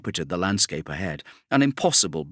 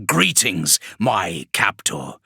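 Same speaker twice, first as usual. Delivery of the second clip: ironic demon; slower than usual. Acted. Vashtor greets his captor Kravarek with slow irony. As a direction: savour the irony.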